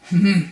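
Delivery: loud, haughty "hmm"; rude sniff. Acted. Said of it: "sniffed Mister Uppity rudely".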